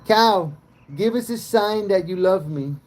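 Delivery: very high, loud pleading call to the cow. Real, not acted. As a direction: beg the cow across the field, high and loud. Calling to the cow again.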